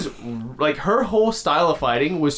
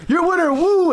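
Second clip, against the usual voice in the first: loud, high mock ring announcer; announcer shout; 5 dB louder than usual. Ring announcer hailing Wu after the knockout, mock announcer shout. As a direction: call out the winner to the crowd.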